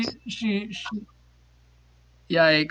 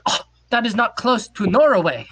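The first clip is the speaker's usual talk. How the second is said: lightly put-on Norwegian accent, a bit higher; mock Norwegian accent; 4 semitones higher, 4 dB louder than usual. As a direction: play the Norwegian stranger in broken English. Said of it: "this accent is".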